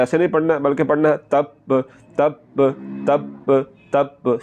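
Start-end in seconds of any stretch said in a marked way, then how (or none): 1.3-4.4 "तब" as "tab", breath held, "ba"; held doubled b. Shown as a demonstration. Teacher corrects students, held double b in तब. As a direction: stop on b in "तब", then sound it afresh. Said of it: "सांस को थोड़ा सा रोक".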